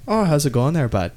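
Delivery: put-on a casual Trailer Park Boys Canadian greeting; a quick mock Canadian hello; Canadian accent. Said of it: "so they just say".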